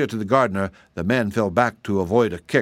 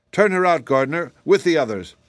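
high, raised cry; 6 semitones higher, 4 dB louder than usual. A narrator's reading. Tea rose wants the princess turned out, crying out high. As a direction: cry it out as an order. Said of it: "cried the tea rose".

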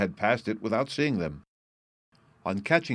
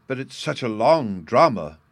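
plaintive; 4 semitones higher, 7 dB louder than usual. A narrator's reading. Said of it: "was the plaintive reply".

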